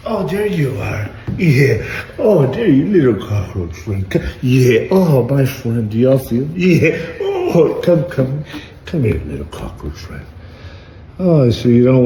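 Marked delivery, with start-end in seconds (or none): 0.1-10.3 high, loud and excited, coaxing a little bug; delighted coaxing. Real, not acted. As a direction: cheer the cockroach on like a tiny pet. Coaxing a cockroach he found.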